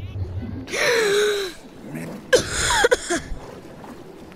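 hammy gasping cough fit; fake coughing. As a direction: splutter as if drowning. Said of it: "Stop fake coughing".

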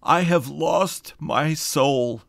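slow, loud, high anguished cry; deep anguish. Acted. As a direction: wail it out like a man who has lost everything. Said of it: "cried out in a tone of deep anguish".

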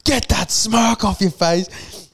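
high, drawn-out imitation of an irate man; mock angry order. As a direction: stretch out the order in hammed-up anger. Acting out the yelling man.

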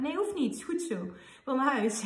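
lightly imitated child's refusal, starting high; hint of a small boy begging off; protesting child. Son told the doctor must treat his hand, protesting.

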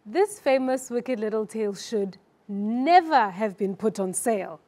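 slight pause before NEVER, then lean on NEVER; emphasize NEVER after a brief hold; pause, stress on NEVER. Shown as a demonstration. Student reads the first sentence for her coach, stress on NEVER. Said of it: "before never, and you underline or emphasize never".

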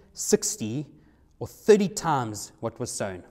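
measured, slowed Bible reading; preacher reading Matthew aloud; scripture reading. Acted. Reads Matthew thirteen aloud.

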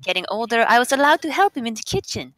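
light put-on German accent. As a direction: read aloud with an attempted German accent. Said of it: "Everybody has to do their best German accent".

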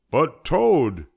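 high, loud protest; loud, high-pitched plea; protesting cry. A narrator's reading. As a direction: cry out in pleading objection. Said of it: "cried Frog".

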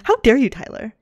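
heated but laughing, loud on the scolding; playfully heated. Real, not acted. Player tells off Tyler for flirting, playfully heated. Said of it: "I'm getting so heated".

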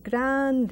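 grande with the A stretched long; grande, its A drawn out. Shown as a demonstration. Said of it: "I just enlarged it".

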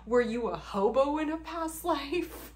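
high, loud, mocking disbelief; incredulous retort. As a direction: ask it like she's lost her mind. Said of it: "And I'm like".

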